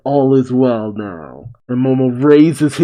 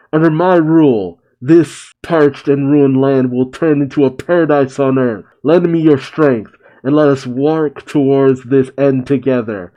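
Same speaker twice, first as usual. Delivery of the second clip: mildly raised, rallying speech; proclaiming shout. Acted. Momonosuke rallying the people of Wano, mild proclaiming shout. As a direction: declaim it firmly, short of a real shout. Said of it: "And Momonosuke shouts".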